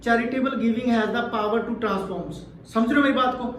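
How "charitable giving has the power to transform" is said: moderate, slow, clear reading voice; the level a boy should read at; boys' reading volume. Shown as a demonstration. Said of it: "मैं boys के लिए बोलूँ तो वो कैसे पढ़ेंगे".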